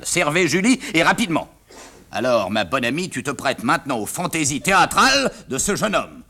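normal talking voice

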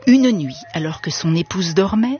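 measured storybook reading, pausing between phrases; story narration. A narrator's reading. Radio guest reading a tale to listeners, story narration. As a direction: tell the tale with relish and deliberate pacing.

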